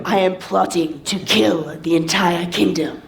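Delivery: low, slow, menacing plotter; villainous Tyrion. Shown as a demonstration. Coach models Tyrion's plot for student, low and slow.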